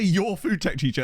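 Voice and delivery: slow, drawn-out mimic of a friend; imitating Viking. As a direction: copy a friend's way of saying it slowly. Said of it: "Viking, I love the way you say".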